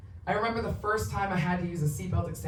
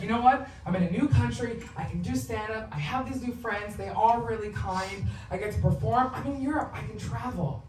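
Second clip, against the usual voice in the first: hopeful self-talk; 4 semitones higher than usual. Retold or imitated. Recounts her hopeful self-talk.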